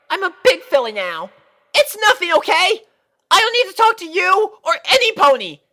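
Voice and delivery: very high loud shouting filly, building to a cry; angry outburst. Acted. Sweetie Belle lashing out at her friends, furious and tearful. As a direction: snap at your friends until it breaks.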